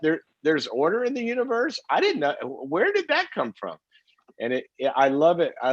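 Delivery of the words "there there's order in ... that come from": puppy voice. Retold or imitated. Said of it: "they'll look at you like".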